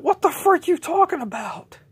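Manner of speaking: high, loud indignant yell; outraged shout. Acted. J J yells at accusers, high and outraged. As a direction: yell back in disbelief.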